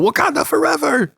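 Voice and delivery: high, playful imitation of a movie African accent; mock African accent. Mom imitating her son's mock African accent. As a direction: chant it like a kid copying the film's African accent. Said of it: "he tries to do the African accent".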